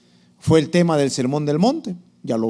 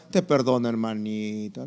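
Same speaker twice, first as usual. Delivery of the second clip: low, soothing mock forgiveness; hammed-up magnanimous church member; forgiving disciple; 6 semitones lower, 6 dB quieter than usual. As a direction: pardon indulgently, slowing and softening at the end. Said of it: "Y ahí el discípulo".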